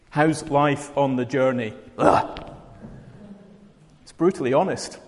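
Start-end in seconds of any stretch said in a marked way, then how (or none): 2.0-2.5 breathy groan. Shown as a demonstration. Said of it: "It's more like woe".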